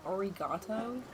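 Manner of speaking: arigato with American r, rising questioningly; unsure American-accented Japanese. Shown as a demonstration. Host checking if it sounds right, American accent. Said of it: "speak Japanese with an American accent".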